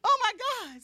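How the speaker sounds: a hammed-up sob of regret; laughing-crying oh my God; mock wail. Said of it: "So I'm like".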